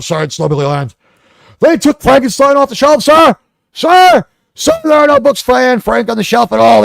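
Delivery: mock a panicky host begging sir; mocking impression of host. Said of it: "he goes, I was on the show".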